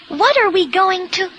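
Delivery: high, urgent question; alarmed. Acted. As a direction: panic as you watch someone drowning. Friend panics as boy drowns.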